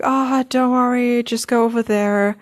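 lightly voiced helpful stranger soothing a worried traveller; reassuring. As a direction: imitate someone kindly waving the problem away. Retelling kind station staff reassuring her.

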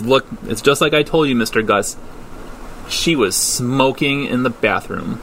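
put-on lightly snooty tattling girl; a hint of a smug tattletale. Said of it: "in a very kinda snooty voice".

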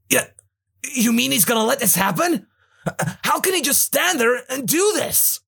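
high, alarmed youth; shocked Trunks voice. Acted. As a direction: protest in disbelief.

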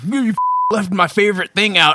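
mock angry fan. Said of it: "people are like".

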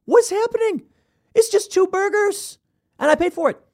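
high-pitched, incredulous whine; baffled disbelief. Retold or imitated. To the yelling worker, high baffled disbelief. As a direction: sound utterly thrown by the fuss. Retelling his own baffled reply.

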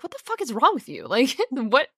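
mock disgusted brother. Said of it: "he'd be like".

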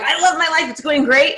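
a hint of hammed-up cheer, not full force; mock enthusiastic. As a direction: radiate cheer at a new acquaintance. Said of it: "you're like".

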